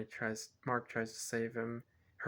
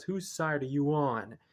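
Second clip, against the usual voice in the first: a touch of angry retort, a bit louder; mild mock anger; 3 semitones higher, 5 dB louder than usual. Boy snapping at his therapist, mildly retold anger. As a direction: lightly act out the kid's outburst. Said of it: "Mark gets pretty mad".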